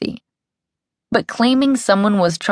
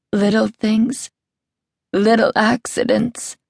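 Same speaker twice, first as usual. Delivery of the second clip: whimpering; 4 semitones higher than usual. A narrator's reading. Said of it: "whimpered yet again".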